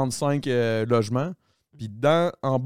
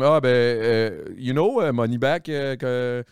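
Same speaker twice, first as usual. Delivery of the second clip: put-on French-accented English, searching for each word; unsure newcomer groping for words in accented English; halting beginner's English; much slower than usual. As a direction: stumble from English into Québécois French. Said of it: "c'était au début, je parlais pas pantoute".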